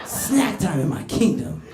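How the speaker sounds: slow, grand royal command; hammed-up monarch ordering a minion about; mock ruler. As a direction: proclaim it slowly, like a pretend ruler. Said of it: "He could be my minion".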